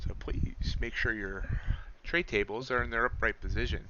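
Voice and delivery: like a captain on the intercom; pilot voice. Pretend. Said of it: "One guy said I sound like a pilot".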